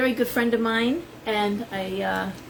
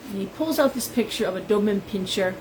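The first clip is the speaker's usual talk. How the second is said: normal talking voice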